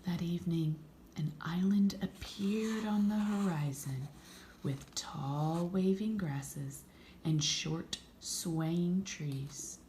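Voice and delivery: slow, whispered storytelling; hushed story narration. A narrator's reading. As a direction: whisper the scene like a bedtime secret.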